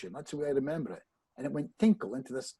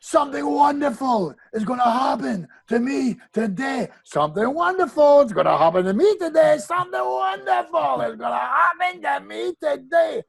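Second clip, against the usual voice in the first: much higher and louder shouted affirmation, repeated; full-throated scream; 11 semitones higher, 9 dB louder than usual. Retold or imitated. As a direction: yell it to the whole breakfast room. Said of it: "He screamed".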